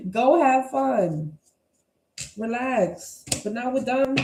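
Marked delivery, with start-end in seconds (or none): 0.1-1.4 slow, laughing send-off. Real, not acted. Reader laughing while telling viewers to have fun. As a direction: let the laugh carry the words.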